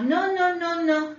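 high, repeated no's brushing off the rescuers; high insistent no. Retold or imitated. Priest refusing the helicopter crew, high and insistent.

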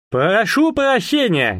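burred throaty R, slow and high; картавый голос. Acted. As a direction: roll every R in the throat. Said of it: "сказал он своим картавым голосом". (картавит, произносит «р» горлом)

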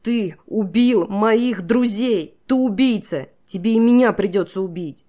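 high, loud, slow at first; girl screams at the king through tears; tearful accusation. A narrator's reading. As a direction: hurl the charge of murder at him.

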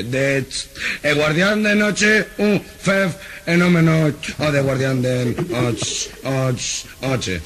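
más agudo, lento y atascado; tartamudeo agudo. Acted. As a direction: estira cada sílaba trabada. Tartamudo repite guardián de noche. (tartamudo agudo que se atasca en noche)

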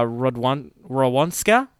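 "Rodwan-" broken off, then "Rowanska"; stumbled mispronunciation. Real, not acted. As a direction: stumble into saying "Rowanska" for the surname. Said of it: "sorry for pronouncing that wrong".

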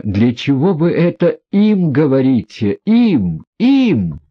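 rising to high, loud indignant cries on "Им"; indignant outcry. A narrator's reading. Aglaya cries out at the prince in indignation. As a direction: fling the repeated "Им" out in fury. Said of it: "вдруг вскричала Аглая".

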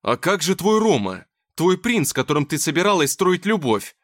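loud, accusing question; angry shouting. Acted. Nikita yelling back.

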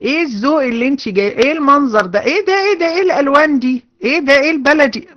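high, fast scolding about her taste; mock disapproving critique. Imitating a blunt friend criticizing a bride's dress, high and fast. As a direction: tear apart the bride's outfit, pitched well up. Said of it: "لو أنا قلت لها".

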